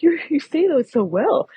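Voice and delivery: mock praising server.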